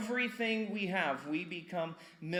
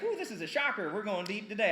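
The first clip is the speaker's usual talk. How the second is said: mock surprise; 5 semitones higher, 3 dB louder than usual. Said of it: "It's like".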